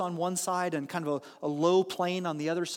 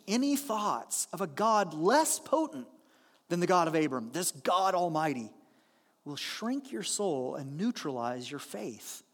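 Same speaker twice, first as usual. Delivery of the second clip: reread with emphasis; 3 semitones lower than usual. Shown as a demonstration. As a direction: read it again so it sinks in. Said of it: "Let me read that again".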